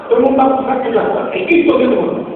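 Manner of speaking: rousing call. Retold or imitated. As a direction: wake the whole bus up with it. Pastor agitando o ônibus. (chamado animado, mais alto e rápido)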